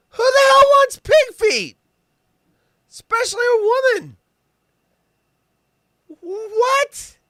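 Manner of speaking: very high, loud outraged squeal; shrieking who wants pig feet; high-pitched rant. Real, not acted. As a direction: squeal it in disbelief. Ranting about pig feet.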